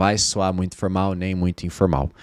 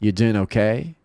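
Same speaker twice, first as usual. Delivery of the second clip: restrained "You doing okay?", rising at the end; low-key check-in. Shown as a demonstration. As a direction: ask it in an understated tone. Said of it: "Ou pode ser assim".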